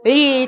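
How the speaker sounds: ळी drawn from a curled-back tongue; Marathi retroflex ळ. Shown as a demonstration. Teacher isolating the hard Marathi syllable, retroflex ळी. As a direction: say ळी as a retroflex L plus ee. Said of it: "वो लोग ळी नहीं बोलेंगे".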